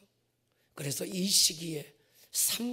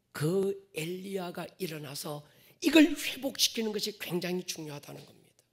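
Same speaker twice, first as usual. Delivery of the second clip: ordinary talk, nothing marked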